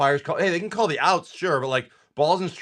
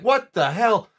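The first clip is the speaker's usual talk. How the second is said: high-pitched retold outburst; about to scream; 6 semitones higher, slower than usual. Homeowner about to scream at intruding driver, retold outburst. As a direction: act out a mild angry yell. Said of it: "about to scream at somebody".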